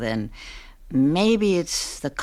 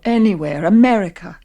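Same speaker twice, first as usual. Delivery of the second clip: eager pleading; 9 dB louder than usual. Acted. Wife pleads to escape abroad.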